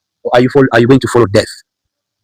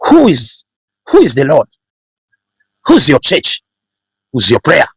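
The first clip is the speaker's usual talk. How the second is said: scornful Pharaoh; 3 semitones higher than usual. Acted. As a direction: challenge them with disdain. Pharaoh scornfully challenging God, acted.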